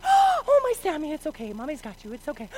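acted-out tender reassurance; soothing mom. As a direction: comfort a frightened little boy. Mother comforts frightened son.

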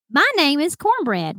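lightly imitating a country caller; thick country accent. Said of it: "thick country accent".

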